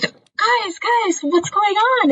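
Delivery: high, slow puzzled Diane voice; a lightly voiced puzzled Diane, drawn out high; mock bewildered intellectual, high and slow; Diane impression. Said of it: "she's like".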